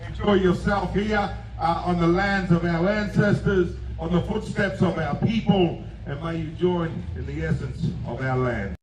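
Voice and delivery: solemn ceremonial address; formal welcome speech. Real, not acted. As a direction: proclaim a formal welcome to the land.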